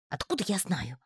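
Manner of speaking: огрызаясь. A narrator's reading. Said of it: "огрызнулся Гишка".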